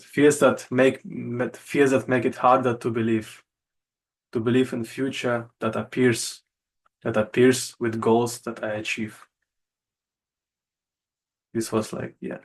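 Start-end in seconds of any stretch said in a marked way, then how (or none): 0.0-9.2 measured slam poem reading, pauses between lines; poem recital. Acted. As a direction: recite your own poem line by line, stressing key words.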